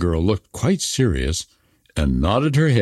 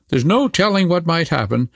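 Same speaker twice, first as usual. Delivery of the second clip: put-on higher, offhand wild girl; pitched-up robber girl; 6 semitones higher than usual. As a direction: shrug off danger, then ask eagerly. Robber girl talking to Gerda.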